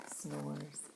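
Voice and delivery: soft breathy whisper for a sleeping bear. A narrator's reading. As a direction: hush it like the bear is asleep. Sleeping bear, quiet refrain.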